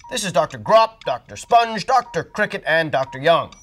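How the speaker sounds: loud high announcing; grand introduction. Acted. Doctor introducing specialists to the Creams. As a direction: present them proudly.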